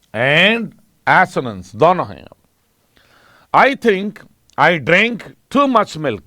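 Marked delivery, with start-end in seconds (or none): 3.6-6.2 slow example reading. Shown as a demonstration. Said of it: "इस line को देखो".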